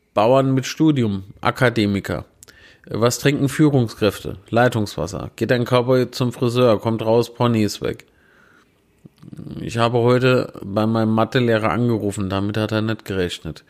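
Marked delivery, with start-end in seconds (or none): none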